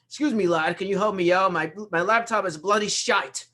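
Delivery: put-on a light British accent on bloody shite; British Isles caller. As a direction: play a puzzled caller from London. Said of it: "That's a good impersonation".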